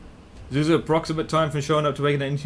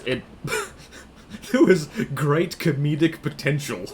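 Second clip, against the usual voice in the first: laughing. Real, not acted. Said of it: "not great comedic potential".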